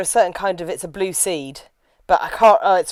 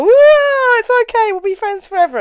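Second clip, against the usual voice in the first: put-on bright magical girl; 8 dB louder than usual. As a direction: gush like an anime heroine mid-transformation. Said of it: "I'm coming in on my magical girl transformation".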